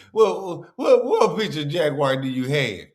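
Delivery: imitating a stuttered comeback, mildly mocking; mocking stammer. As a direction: repeat the first word like a stumbling imitation. Mocking the clip's stammered question.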